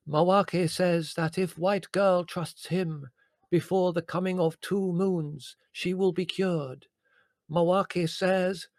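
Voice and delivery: put-on a slow, high Indian accent for the spirit guide. Medium channelling her spirit guide Mawake in a slow Indian accent. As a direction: stretch each word out in a put-on Indian accent. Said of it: "strong Indian accent".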